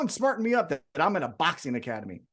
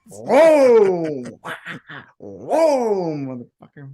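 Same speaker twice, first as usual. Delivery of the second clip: excited whoa; 7 dB louder, much slower than usual. Real, not acted. Delighted exclamation with laughter.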